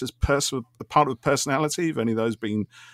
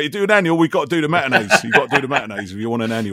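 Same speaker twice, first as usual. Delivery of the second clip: jokily firm, a bit louder, laying down terms; mock stern bargaining; 2 semitones higher, 4 dB louder than usual. Producer jokily bargaining with the actor over his fee, half-laughing.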